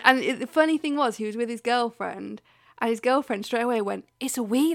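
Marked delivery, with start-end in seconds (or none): 4.2-4.7 mildly embarrassed quick correction; imitated embarrassment. Girlfriend correcting boyfriend in public, mild embarrassment. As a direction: correct him as his embarrassed partner would. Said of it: "really embarrassed".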